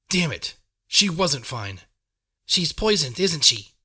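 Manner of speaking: panicked demand; alarmed shout. Acted. Alarmed demand over poisoned friend.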